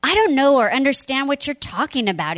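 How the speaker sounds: defensive denial. Acted. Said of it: "But he denied it".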